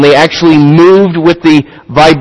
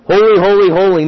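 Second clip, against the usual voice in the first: "Holy, holy, holy" called out higher, like angels crying across the heavens; 5 semitones higher than usual. Shown as a demonstration. Pastor voicing the seraphs calling to each other, a raised cry. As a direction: lift each "holy" high and ring it out. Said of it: "provoking these angels to cry back and forth".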